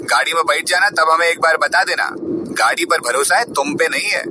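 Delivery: mother needling her son, lightly sarcastic; sarcastic taunt. Acted. Mother taunting son on phone, softly sarcastic. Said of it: "Alka जी एकदम तंज भरे शब्दों में बोली".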